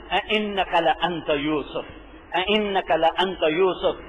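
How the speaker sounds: slow, even recitation with no feeling; a flat reading set against the stunned one; wrong tone. Shown as a demonstration. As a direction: say it as a calm recital, the way it was not said. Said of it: "اس لہجے میں نہیں ہے".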